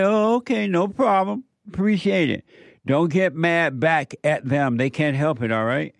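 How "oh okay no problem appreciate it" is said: unbothered reply. Acted.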